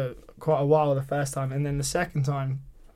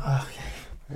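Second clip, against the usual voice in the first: very soft, small reply; awkward acceptance; 3 semitones lower, 7 dB quieter, slower than usual. Retold or imitated. Man hearing his date saw the show, quietly awkward. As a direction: take it in under your breath.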